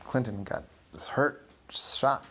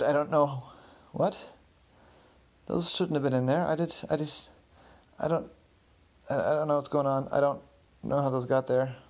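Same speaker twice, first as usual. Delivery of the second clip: flustered; 4 semitones higher, 3 dB louder than usual. Acted. Clinton flabbergasted by found items.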